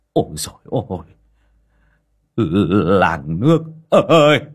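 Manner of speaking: put-on high, loud old man crying out to the whole village; ecstatic shouting. A narrator's reading. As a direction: yell it to the market in wild joy. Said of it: "cầm tay con mà gào lên". (ông bố gào lên sung sướng giữa chợ)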